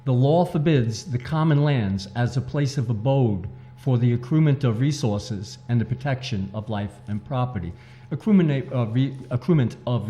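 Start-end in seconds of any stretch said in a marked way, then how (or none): 0.0-7.7 measured, deliberate reading, phrase by phrase; slower repeat. Shown as a demonstration. Author repeats his book's thesis for the host, slower. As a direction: take it slower so each phrase lands. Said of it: "say that again a little slower".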